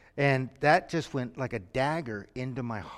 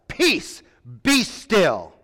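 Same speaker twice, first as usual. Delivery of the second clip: shouted command; 4 semitones higher, 9 dB louder, much slower than usual. Shown as a demonstration. Jesus shouting over the howling wind, commanding. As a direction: shout peace be still high and loud over the wind. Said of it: "I see him shouting 'cause the wind is howling".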